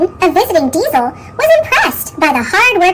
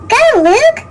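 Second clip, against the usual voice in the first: high urgent call to Luke; Skarloey crying out to Luke to go; cried out; 8 semitones higher, 3 dB louder than usual. A narrator's reading. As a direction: call after him, urging him on. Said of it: "Skarloey cried".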